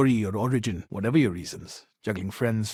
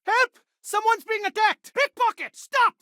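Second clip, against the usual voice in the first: shouting for help. Acted. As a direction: yell across the street to stop the thief. Bystander shouting about a theft.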